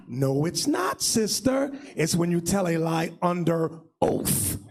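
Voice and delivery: low, measured rebuttal; deep, deliberate comeback; firm correction. Retold or imitated. Firm low reply correcting the sister.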